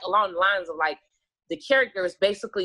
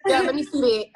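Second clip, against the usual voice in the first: higher and louder, playfully eager; eager repeat; 5 semitones higher, 3 dB louder than usual. Retold or imitated. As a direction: toss it out again, teasing and keen. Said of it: "I be like".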